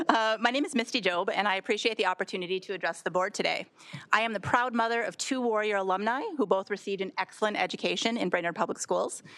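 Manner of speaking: clear, projected classroom voice; teacher voice. Real, not acted. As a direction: address the room like a teacher. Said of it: "I also have a teacher voice, so I will use it".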